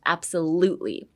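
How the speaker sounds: 'Absolutely' with emphasis on 'lu', falling end; stress on LU. Shown as a demonstration. Teacher repeating for learners, 'Absolutely' stressed on LU. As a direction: hit the 'lute' in 'Absolutely'. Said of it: "Emphasis on the L U".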